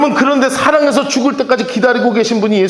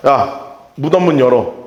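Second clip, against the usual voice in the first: lower, blunt command; blunt Jesus order; 10 semitones lower than usual. Retold or imitated. Jesus orders Martha to open the tomb, low blunt voice. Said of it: "예수님이 하신 말이 뭐냐면".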